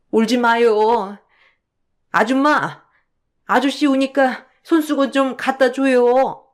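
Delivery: put-on a little girl soothing a crying man; childlike voice. Mother as a child telling her son not to cry, childlike. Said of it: "칠 세 어린아이가 되시고".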